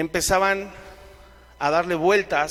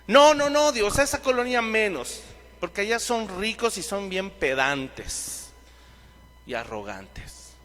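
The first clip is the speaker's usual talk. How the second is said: mocking Paul refusing, louder; 3 semitones higher than usual. Preacher mocks Paul refusing God's call, loud whiny no. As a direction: play Paul balking at God like a spoiled kid. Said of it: "Pablo constantemente decía".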